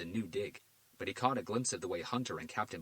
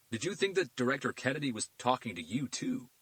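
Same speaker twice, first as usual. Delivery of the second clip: arrogant FBI agent, pitched higher and louder; smug agent; 5 semitones higher, 6 dB louder than usual. A narrator's reading. Agent Williams cutting off Garcia, arrogant. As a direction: brush off the local cops.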